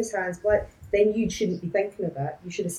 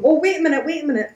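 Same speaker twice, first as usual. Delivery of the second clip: imitating Horner; 7 semitones higher, 6 dB louder, faster than usual. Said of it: "bolted up there, going".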